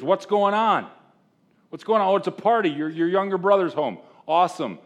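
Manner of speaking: older son acting it out, a touch high and loud; lightly voiced sulky older son. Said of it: "He hears".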